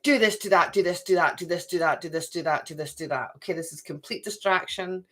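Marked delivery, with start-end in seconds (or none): 0.0-3.3 nagging taskmaster. Retold or imitated. Night side nagging the reader, mock orders fading out. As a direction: rattle off the chores like a nagging boss, trailing away. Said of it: "It's like".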